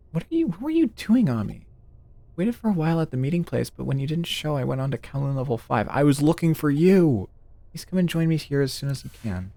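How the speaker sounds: reading the on-screen lines in a lightly acted voice; lightly voiced game character. Streamer reading a friend's message to Ami, lightly voiced.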